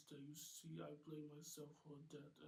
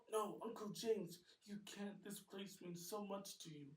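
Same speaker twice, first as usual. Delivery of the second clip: higher, louder pleading nephew; Nate protesting; 5 semitones higher, 9 dB louder than usual. Acted. Nephew begging uncle not to sell, higher and louder.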